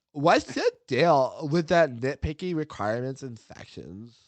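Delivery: put-on bubbly Valley Girl read. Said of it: "read this in, like, a Valley Girl voice".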